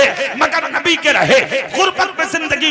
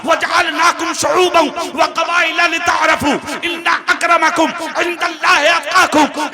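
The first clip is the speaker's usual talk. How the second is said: Quranic recitation. Acted. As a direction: intone the verse like a recitation. (Quran की तिलावत)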